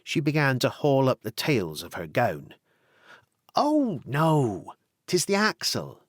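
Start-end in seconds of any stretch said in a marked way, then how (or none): 3.5-6.0 assuring. Acted. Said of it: "said Tony in an assuring way".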